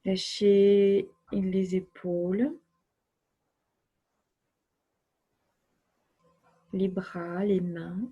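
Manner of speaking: unhurried relaxation voice with long silences; guided relaxation. Acted. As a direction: guide the body to let go, phrase by phrase. (voix posée de relaxation guidée)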